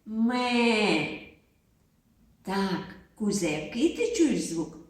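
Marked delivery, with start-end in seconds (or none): 0.0-1.1 goat bleat. Acted. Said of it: "який звук ви чуєте тут".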